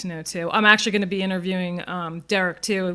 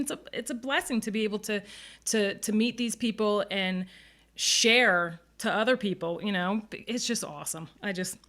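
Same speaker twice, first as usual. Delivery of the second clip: teary-eyed; 5 dB quieter than usual. Real, not acted. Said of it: "teary-eyed again here".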